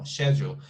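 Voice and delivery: "Schedule" with a sh start, shedjool; British schedule. Shown as a demonstration. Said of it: "Actually, it's really hard".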